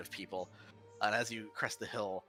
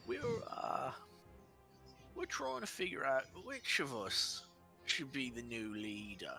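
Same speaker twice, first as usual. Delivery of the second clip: high, pompous giant head; a dim giant trying to sound wise; the other head; 4 semitones higher than usual. Acted.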